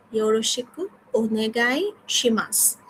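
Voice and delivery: ওনেগাই শিমাস drawn out slowly, each syllable clear; very slow model. Shown as a demonstration. Teacher models the closing phrase slowly to the class. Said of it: "সর্বশেষে বলছি".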